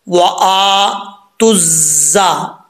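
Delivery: slow, ta joined straight to zza in तुज़्ज़ा; correct joining. Shown as a demonstration. Teacher showing the right join, slow. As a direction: glide from ता into ज़्ज़ा with no waw. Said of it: "ता को direct हम मिलाएंगे".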